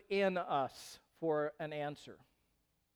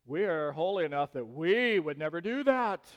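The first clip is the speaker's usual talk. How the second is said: lightly hammed-up holier-than-thou; weight on WE, mock piety; a hint of self-righteous boasting; mock sanctimonious; 4 dB louder than usual. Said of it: "there's that question".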